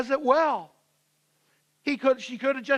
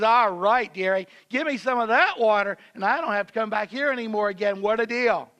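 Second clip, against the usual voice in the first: mock-coarse, louder, sarcastic dearie; crass, picking a fight; 4 dB louder than usual. Woman mocking Jesus's offer of water, coarse and sarcastic. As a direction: toss it off with a crass sneer. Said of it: "coarse, crass, uh, picking a fight kind of attitude".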